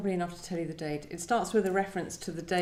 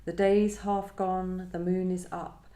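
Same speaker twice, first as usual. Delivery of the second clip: measured, unhurried reading of a poem. Acted. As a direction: read it out as you would at a poetry reading. Reads her own poem aloud.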